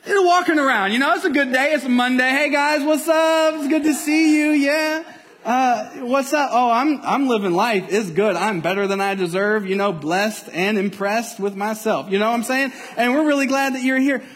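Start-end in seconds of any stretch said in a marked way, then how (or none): 2.3-12.1 lightly hammed-up smug friend; smug churchgoer. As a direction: cheerfully greet everyone, full of yourself. Acting a smug hypocrite greeting.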